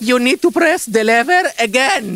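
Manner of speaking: slow, high, word-by-word instruction; holding back exasperation, drawn out; strained patience. Acted. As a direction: spell it out slowly to a difficult guest. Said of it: "Why you shout?".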